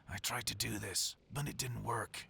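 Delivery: a lightly gruff take on a game hero; barely gruffed-up, half-joking hero line; gruff Doug Cockle voice. Retold or imitated. Voice actor imitates a gruff hero for his friend's game. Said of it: "Doug Cockle impression".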